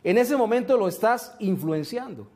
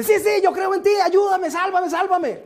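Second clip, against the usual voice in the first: a man clinging to a root begs the voice to save him; desperate pleading; 10 semitones higher than usual. Retold or imitated. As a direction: beg for your life while hanging on a root. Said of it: "el tipo llega y dice".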